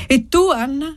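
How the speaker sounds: put-on high child voice; lively little girl. A narrator's reading. Little girl turns question on Annessa, high lively voice. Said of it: "esclamò vivacemente la bambina".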